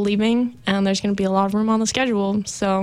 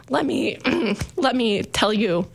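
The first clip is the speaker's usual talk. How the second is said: real cracks in the voice, pitch jumping up; voice breaking; 3 semitones higher than usual. Real, not acted. Radio host on an emotional last episode, voice breaking. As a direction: voice catches and breaks as you start over. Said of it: "my voice is breaking".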